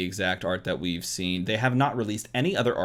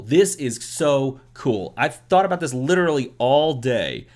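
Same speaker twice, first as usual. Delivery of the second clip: louder, gushing word vomit; overexcited babbling; 4 dB louder than usual. Real, not acted. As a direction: spill it all out eagerly. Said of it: "word vomit on you".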